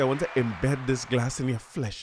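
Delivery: normal talking voice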